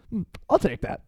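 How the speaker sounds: laughing, sly tease. Retold or imitated. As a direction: tease him while laughing. Mocks taking the champagne.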